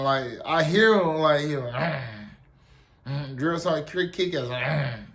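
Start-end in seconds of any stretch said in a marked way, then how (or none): 1.7-3.4 short, low growls; imitated growling. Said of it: "he over there growling". 4.6-5.0 one short, low growl; imitated growl. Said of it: "like, growling and shit".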